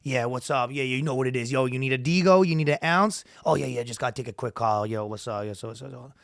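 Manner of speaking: casual street patter; lightly voiced hood dealer on his turf; hood dude. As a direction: run the slang off casually. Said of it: "every dude that's kinda hood".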